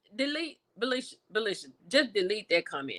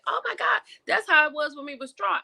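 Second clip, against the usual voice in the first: mock realization; 6 semitones higher than usual. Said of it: "then you be like".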